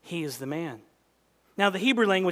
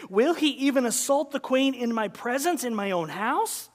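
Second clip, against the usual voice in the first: outraged king; 6 semitones higher than usual. Acted. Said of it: "And the king said".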